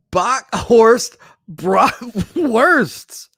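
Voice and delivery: slow, drawn-out hushed whisper; dramatic whisper. Pretend. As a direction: breathe the name out slowly like a secret. Announcing a silly deal name.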